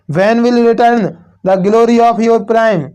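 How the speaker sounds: very slow verse reading, drawn out word by word; teacher repeats the poem line slowly for the class; slow poem recital. Shown as a demonstration. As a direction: dwell on every word of the line. Teacher reads poem line again.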